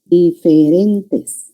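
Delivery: diferentes very slowly, syllable by syllable; emphatic repeat. Shown as a demonstration. Teacher repeating a key condition to students, very slow. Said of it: "tienen que ser cerradas diferentes".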